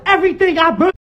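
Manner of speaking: heated, emphatic outburst. Real, not acted. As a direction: push through despite being hushed. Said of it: "Stop yelling".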